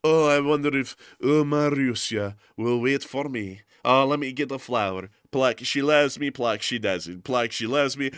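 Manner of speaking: lightly voiced lovelorn soldier; daydreaming soldier. Soldier under a tree thinking of Marussia, mildly wistful. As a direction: muse over the petals, lightly acted. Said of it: "be like".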